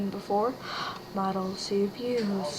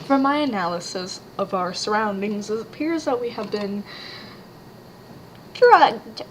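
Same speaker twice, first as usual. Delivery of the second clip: pompous character voice; 3 dB louder than usual. Acted.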